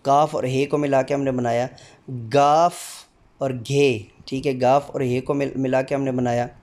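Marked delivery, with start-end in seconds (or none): 2.1-4.1 each Urdu letter name sounded out slowly and distinctly. Shown as a demonstration. Teacher drilling the Urdu alphabet for demo candidates, slow and distinct. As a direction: recite the alphabet, one clear sound at a time. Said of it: "हर हरफ की आवाज़ अदा करते हुए".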